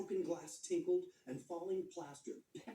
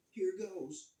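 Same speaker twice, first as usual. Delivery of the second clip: eager; 5 semitones higher, 6 dB louder than usual. A narrator's reading. Thomas starts himself.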